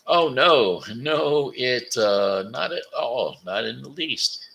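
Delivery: high, loud, eager crocodile protesting. Acted. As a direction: hurry to reassure him, too eagerly. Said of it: "said the crocodile".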